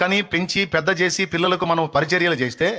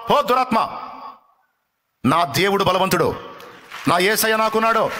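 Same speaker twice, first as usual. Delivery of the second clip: rebuke prayer. Shown as a demonstration. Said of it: "చెప్పు దాంతో యేసు నామములో".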